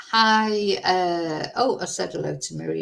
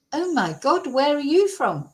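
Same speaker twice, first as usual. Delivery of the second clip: put-on light Mancunian accent, pitched higher, amazed; a hint of a surprised Manchester lad; imitating Mancunian accent; 6 semitones higher than usual. Stranger in kebab shop asks where she's from, light Mancunian accent. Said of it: "he said it in a Mancunian accent".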